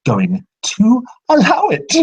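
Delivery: high eerie menacing voice; a furious spirit refusing the intruders; high spirit threat. Acted. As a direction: snap it up into a ghostly warning. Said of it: "his voice echoes once again".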